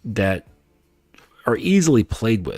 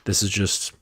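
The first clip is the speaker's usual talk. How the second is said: quiet, polite and composed; bow out with class; cordial; 3 dB quieter, faster than usual. Shown as a demonstration. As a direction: exit like James Bond, firm and courteous. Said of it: "In a cordial way".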